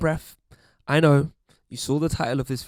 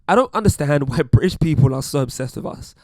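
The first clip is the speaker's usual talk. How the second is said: louder, hammed-up American accent; mock American accent; 6 dB louder than usual. Mimicking commenters who think Brits are obsessed, mock American accent. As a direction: put on a bad American accent, breaking into a laugh. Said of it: "I'm not gonna do the accent anymore".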